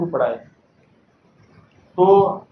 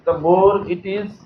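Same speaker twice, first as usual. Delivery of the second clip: slow model reading; much slower than usual. Shown as a demonstration. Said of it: "ये वाला sentence देखो".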